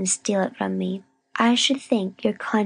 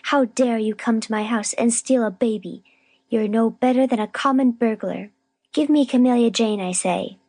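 higher-pitched, emphatic scolding; indignant demand; 5 semitones higher than usual. A narrator's reading. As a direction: demand the child back like an outraged accuser. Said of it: "cried Miss Rosetta".

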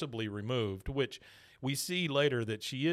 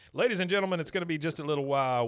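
higher, louder announcer voice, hurried; mock announcement; 4 semitones higher, 5 dB louder, faster than usual. Star halting the autograph line, mock announcer voice. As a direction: call it out to the crowd.

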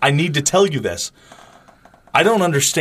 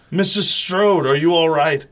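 Doctor Loomis; 4 semitones higher than usual. Retold or imitated. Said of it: "He says".

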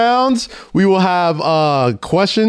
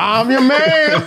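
higher, slow host catchphrase; Steve Harvey impression; 5 semitones higher, slower than usual. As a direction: stretch it like a TV host. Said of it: "Jesus Christ".

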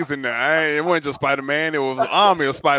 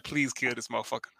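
low, soft mock prayer; retold hushed plea; murmured prayer; 4 semitones lower, 12 dB quieter than usual. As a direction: pray it quietly under your breath. Retelling a character's prayer.

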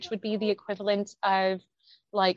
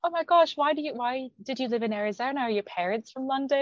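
higher-pitched imitation of surprised questioning; mock astonishment; 5 semitones higher than usual. Curious Americans quizzing her about her accent, mock astonished. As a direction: gush it like an amazed stranger.

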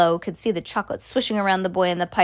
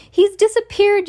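very high, loud outcry; Missus Gloop yelling; 12 semitones higher, 5 dB louder than usual. A narrator's reading. Missus Gloop discovers her son has vanished, high alarmed yell. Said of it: "yelled Missus Gloop".

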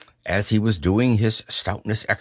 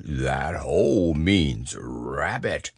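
Pooh's voice; 6 semitones lower, slower than usual. A narrator's reading. Pooh voiced in story.

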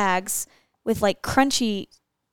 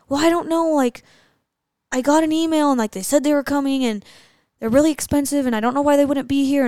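higher-pitched, run-on fretting; imitating anxious rambling; 4 semitones higher, 3 dB louder than usual. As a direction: mimic someone going on and on about a missing delivery. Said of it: "was going on and on and on".

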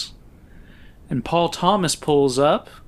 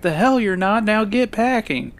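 retold mild yell; 7 semitones higher than usual. Film reviewer retelling a father yelling back at his daughter, mock yell. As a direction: imitate an angry father ordering his daughter. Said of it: "the voice yells back".

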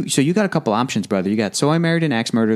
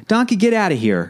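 Shrek quote; 8 semitones higher than usual. Retold or imitated. Quoting Shrek line.

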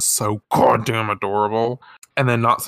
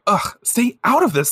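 snotty high brush-off; 11 semitones higher, 3 dB louder than usual. Acted. Acted snotty girl.

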